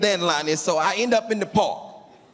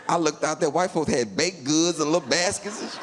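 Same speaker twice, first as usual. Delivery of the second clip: ordinary talk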